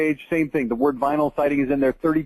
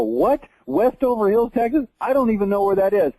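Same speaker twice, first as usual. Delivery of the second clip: higher, incredulous at a town he's never heard of; baffled disbelief; 4 semitones higher than usual. Retold or imitated. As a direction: play it as a puzzled local squinting at a strange place name. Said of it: "and I go".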